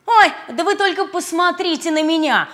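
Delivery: loud showing-off brag; boastful. Acted. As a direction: show off, proud and loud. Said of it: "хвастался Блин".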